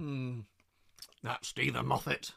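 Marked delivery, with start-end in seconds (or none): 1.2-2.3 slow, teasing take on an author's speech; Neil Gaiman impression. Co-host mimics the author to tease, slow light impression. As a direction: lightly imitate a well-known author, drawn out. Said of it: "that was in Neil Gaiman's voice".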